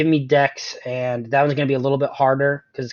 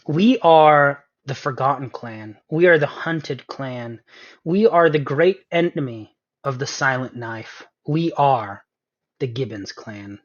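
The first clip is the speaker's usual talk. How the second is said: goblin proclamation. Acted. GM declaims as the goblin clan.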